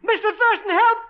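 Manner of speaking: high, panicked cries for help; terrified screaming. Acted. Begs, then screams for help.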